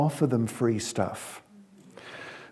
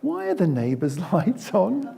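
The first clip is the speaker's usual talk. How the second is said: higher, laugh breaking in; child question, laughing; 6 semitones higher than usual. Acted. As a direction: deliver the punchline innocent.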